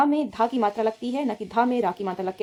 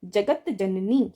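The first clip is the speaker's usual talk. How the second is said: slow dictation; much slower than usual. Shown as a demonstration. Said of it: "ये अलग अलग नहीं".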